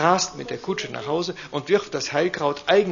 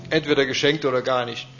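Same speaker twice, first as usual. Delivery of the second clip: lightly voiced indignant duke; 3 semitones higher, 6 dB louder than usual. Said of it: "der Großherzog".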